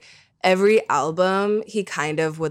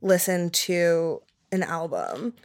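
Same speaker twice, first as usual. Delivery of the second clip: choppy, breaking-up call audio; corrupted glitchy audio. Real, not acted. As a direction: voice dropping out on a bad connection. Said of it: "You're cutting out a little".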